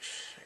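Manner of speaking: soft, voiceless shush; imitated hiss of air. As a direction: let air out quietly in imitation. Imitates man's quiet reaction.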